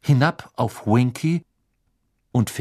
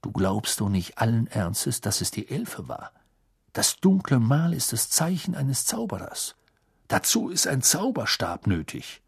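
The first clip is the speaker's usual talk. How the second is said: a softer, reasoning colleague; calm Mister Weasley; 4 dB quieter than usual. Acted. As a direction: talk him down gently.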